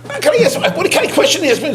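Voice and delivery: incredulous laugh breaking into the question; laughing disbelief. Real, not acted. Laughing disbelief at rebbe's request.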